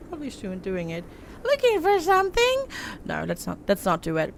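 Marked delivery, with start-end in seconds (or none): 1.4-2.7 very high, louder goblin voice. Acted. Old woman suspiciously asking the stranger, in a goblin voice. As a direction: squeak it out like a goblin. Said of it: "that was more like a goblin voice".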